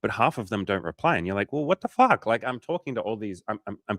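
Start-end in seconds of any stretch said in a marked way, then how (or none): 1.5-2.3 mock outrage. Frustrated guy unanswered on apps.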